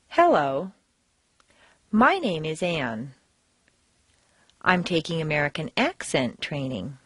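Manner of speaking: deliberate reading with pauses, key words heavily stressed; exaggerated word stress. Shown as a demonstration. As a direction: read carefully for learners, overdoing each stressed word. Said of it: "I'm going to exaggerate the words".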